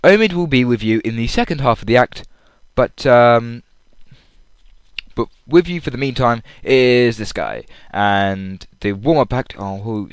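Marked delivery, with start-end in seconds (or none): 0.0-7.7 lightly imitated show announcer; a hint of a stage announcer introducing an act. Fan mimics the voice heard as lights dim, light announcer voice. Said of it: "and his voice goes".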